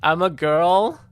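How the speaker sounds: very high, loud squeaky voice breaking into giggles; giggling squeal. Real, not acted. Streamer joking to viewers in a fit, squealing with laughter.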